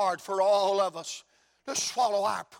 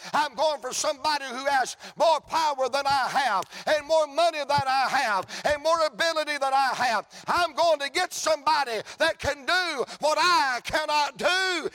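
building answer; 5 semitones higher, 3 dB louder than usual. Acted. Preacher builds Jairus's answer.

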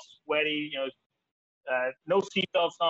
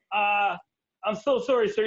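higher, sheepish apology to the trooper; mock-meek sorry sir; 4 semitones higher than usual. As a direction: sound small and sorry. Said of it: "And I'm like".

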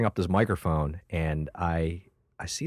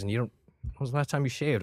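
prissy chaplain; 5 semitones higher, 5 dB quieter, faster than usual. Retold or imitated. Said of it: "He goes".

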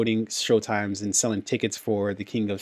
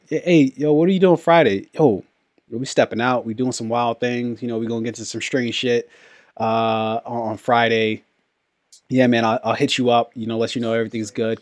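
homie voice. Retold or imitated. Friend inviting you out Friday, hyped homie voice. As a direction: play the hyped friend making plans. Friends making weekend plans, acted.

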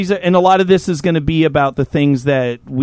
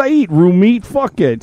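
hammed-up Aussie tough accent; mock Australian accent. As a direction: keep up a bad Australian accent. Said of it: "that's my Australian accent".

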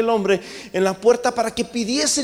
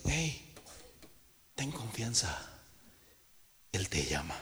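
much softer and lower, hushed and kind; gentle encouragement; 12 semitones lower, 18 dB quieter than usual. Acted. People tell the blind man Jesus calls him, hushed. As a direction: coax him gently, almost under the breath. Crowd now encourages the beggar.

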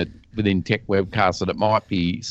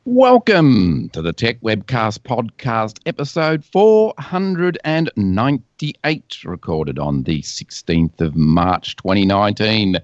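announcer read. Acted. Reads podcast intro.

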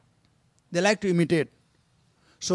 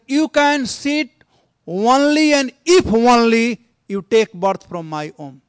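taunting stepmother; 2 semitones higher, 6 dB louder than usual. Acted. Stepmother taunts little Dhruva, loud and cutting. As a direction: lean hard on each word to wound the boy.

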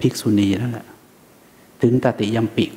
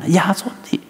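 put-on scolding a child; 6 semitones higher than usual. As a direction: drag out the warning like a nagging parent. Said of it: "หรือต่อให้มีลูกสักคน".

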